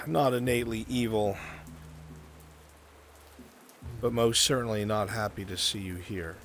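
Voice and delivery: measured, deliberate scene-setting with pauses; game master narration. Acted. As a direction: set an uneasy scene, phrase by phrase.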